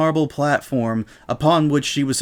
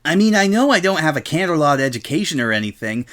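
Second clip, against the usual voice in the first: Rainbow Dash voice; 6 semitones higher, faster than usual. Acted. Rainbow feigning innocent argument.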